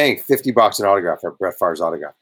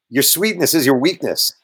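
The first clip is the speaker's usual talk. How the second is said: high-pitched taunt; 4 semitones higher than usual. Retold or imitated. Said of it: "in his real high-pitched voice".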